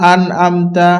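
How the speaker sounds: "আনআমতা" run together casually, no throat sound; mistaken reading. Retold or imitated. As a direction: say "আনআমতা" as careless readers do. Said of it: "এটা আন আমতাও নয়".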